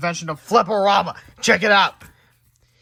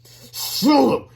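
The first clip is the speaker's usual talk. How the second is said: sharp raised call of a name; angry call; 9 semitones higher, 8 dB louder than usual. Acted. Teacher calling the hamster angrily. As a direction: snap the name out high. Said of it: "he said angrily".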